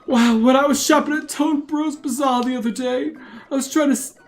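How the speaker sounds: put-on old man voice. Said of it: "the old man voice".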